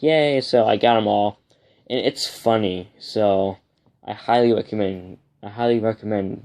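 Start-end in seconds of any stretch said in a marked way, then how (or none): 0.0-0.4 excited yay. Retold or imitated. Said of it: "I'm like".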